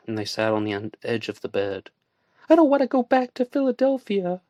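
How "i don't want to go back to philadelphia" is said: put-on high, troubled young woman's voice; Joanna's upset voice. A narrator's reading. Woman confessing to her friend, voiced higher and upset. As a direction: let her confession spill out. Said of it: "she confessed".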